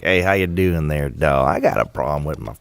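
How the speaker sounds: a hint of a chummy wiseguy voice; playful character voice. Shown as a demonstration. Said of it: "I'm like, instead of just talking".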